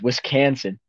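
"Wisconsin" with "can" as the middle syllable; forced rhyme pronunciation. Retold or imitated. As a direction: say "Wisconsin" as Wis-CAN-sin to rhyme with mansion. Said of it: "a rapper rhymed mansion with".

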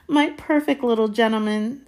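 high, emotional proud mother; sniffed, doting. A narrator's reading. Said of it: "sniffed Aunt Petunia".

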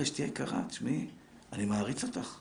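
tender husband. Retold or imitated. Husband stepping up to his busy wife, softly admiring. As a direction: say it close and gently.

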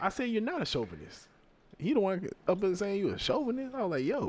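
high defensive. Real, not acted. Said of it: "defending himself, voice up".

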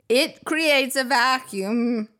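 very slow, mock-sultry delivery; put-on reading voice. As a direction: drag it out like a cheesy ad. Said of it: "I can't say that without that voice on".

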